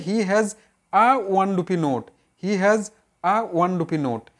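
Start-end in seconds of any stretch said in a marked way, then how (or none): 0.9-2.1 very slow, each word separated; slow dictation. Shown as a demonstration. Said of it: "তাহলে এখানে কি হবে?". 3.2-4.3 very slow, each word separated; slow dictation. Shown as a demonstration. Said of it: "তাহলে এখানে কি হবে?".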